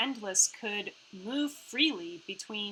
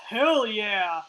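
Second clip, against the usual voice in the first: gleeful cheer; 7 dB louder than usual. Real, not acted. The speaker cheers about the weapon.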